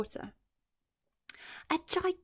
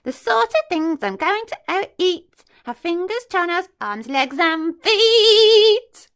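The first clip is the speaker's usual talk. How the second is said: higher, slow sing-song relish; relishing list; 10 semitones higher, 12 dB louder, slower than usual. Acted. Crocodile taunting the monkey, higher and savouring. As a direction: savour each body part. Crocodile listing body parts.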